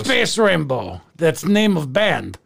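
mock Irish sliding into Slavic; bad Irish accent that sounds Russian or Polish; botched Irish brogue. Leprechaun grumbling about the parade, Irish brogue gone Slavic. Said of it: "I'm actually from Slovakia".

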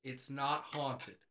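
reading a sign. Acted. Reading the free couch sign, slow deadpan "it's not haunted". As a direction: spell out "it's not haunted" slowly and evenly. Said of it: "put a sign on it that says".

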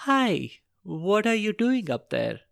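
high, sweet princess voice; bright storybook princess greeting; cartoon princess. Princess greets girl at skylight.

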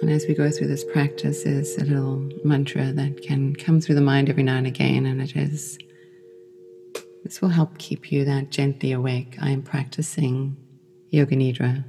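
calm meditation voice with long pauses; unhurried, soothing yoga nidra guidance; guided meditation. Acted. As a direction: guide them gently into rest, leaving space between phrases.

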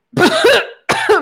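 sudden loud choking cough; coughing fit. Real, not acted. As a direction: choke and cough hard mid-sentence. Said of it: "me acabo de ahogar".

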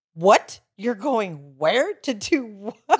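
slow, drawn-out disbelief; disbelieving Seth. Retold or imitated. Big brother grilling Lexi about her trip, slow and disbelieving. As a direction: stretch each question out, stunned. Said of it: "and he's like".

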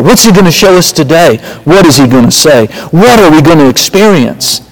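hear the thrill: he's coming; excited. Retold or imitated. Adam and Eve excited for God.

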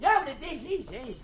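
put-on high, carrying call to the boys; calling out far. Old man calling to distant boys to get their attention. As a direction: call across the park to the children.

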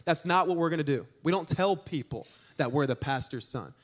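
lightly voiced stern mother; measured, no-nonsense scolding; stern talking-to. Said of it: "she gave me a stern talking to".

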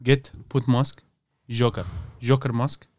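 slow, broken words with pauses; caveman talk. Pretend. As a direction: answer in halting mock-primitive speech. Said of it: "talk to him like a caveman".

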